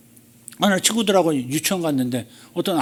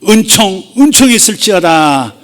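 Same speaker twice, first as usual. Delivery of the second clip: louder, commanding blessing; louder, forceful blessing with a firm falling end; powerful and authoritative; 5 semitones higher, 8 dB louder, slower than usual. Pretend. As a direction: declare it with authority. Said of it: "강력한 눈빛으로".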